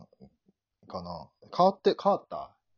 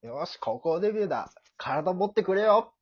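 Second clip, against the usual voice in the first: straining hero; 8 semitones higher, 3 dB louder than usual. Acted. Showing his partner the exact line, rising hero cry. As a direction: build from resolve to an all-out cry. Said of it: "って言った".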